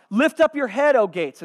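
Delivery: loud, high proclamation; herald's cry. Acted. Herald going before the returning king, crying out. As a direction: cry it out ahead of the army. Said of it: "he cries out".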